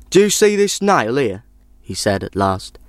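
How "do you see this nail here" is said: lightly voiced, higher-pitched traveller; storybook traveller. A narrator's reading. Traveller shows the old woman his nail, lightly voiced higher pitch. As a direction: draw the listener in, pitched up.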